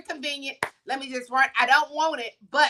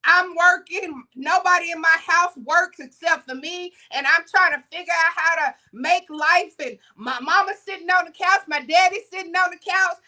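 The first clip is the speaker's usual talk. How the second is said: higher-pitched, mild pleading; understated acted-out breakdown; retold breakdown; 4 semitones higher than usual. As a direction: pour it out, imitating a worn-out teenager. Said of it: "the little boy breaks down".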